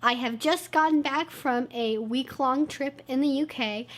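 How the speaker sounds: usual speaking voice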